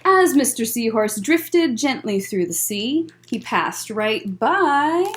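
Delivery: gentle storytime read-aloud; picture book voice for kids; reading to children. Acted.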